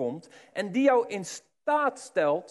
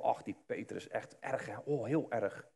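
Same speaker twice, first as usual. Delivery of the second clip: mock pity; 7 semitones lower, 8 dB quieter than usual. Mocking judgemental churchgoers.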